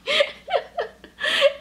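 high bursting giggle. Real, not acted. Laughs at her own dilemma.

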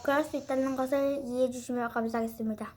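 quick talk while chewing gum; chewing gum through the words. Real, not acted. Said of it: "껌을 씹고 있어서".

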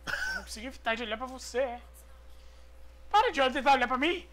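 normal talking voice

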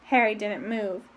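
plain reading voice

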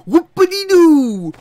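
high, loud, slow mocking squeal. Real, not acted. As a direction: stretch it out in a laughing falsetto. Repeats it mocking, laughing.

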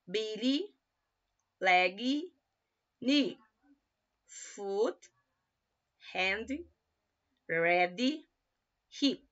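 each word set apart by a pause; model pronunciation. Shown as a demonstration. Teacher listing body parts for students to repeat, each word set apart. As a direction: give each word alone for the class to repeat.

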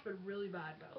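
whispered gross-out; whispered disgust. Real, not acted. Disgusted aside.

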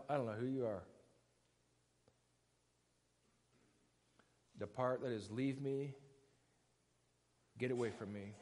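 very soft, low, with long pauses; quiet rejection. Acted. Jesus sending the lawless away, quiet rejection. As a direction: disown them softly and gravely.

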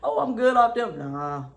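high, loud, mocking fake-cool voice; fake aloof brush-off. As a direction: mimic a fake friend acting too good for everyone. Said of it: "gonna put on like".

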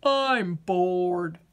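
low, glum potato voice; bored potato. Acted. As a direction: sound like a vegetable with no fun left.

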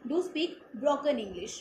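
very slow, word by word reading; slow quoted line. Shown as a demonstration. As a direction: read the quote out slowly and deliberately. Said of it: "मैं आपको पढ़ के सुनाती हूँ".

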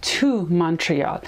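very slow, carefully spaced words; slow clear classroom example; slow model sentence. Shown as a demonstration. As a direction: spell it out slowly for learners.

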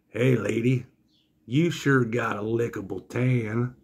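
slow, drawn-out creepy come-on; sleazy flirt. Retold or imitated. Three Tooth Willie hitting on wife, slow mock come-on. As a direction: imitate a leering carny, taking it slowly.

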